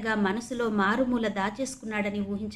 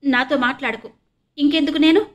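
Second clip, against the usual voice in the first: louder and higher, crying out; between sobs; 5 semitones higher, 7 dB louder than usual. A narrator's reading. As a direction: sob it out to your brother. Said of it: "వెక్కిళ్ళ మధ్య అస్పష్టంగా అంది".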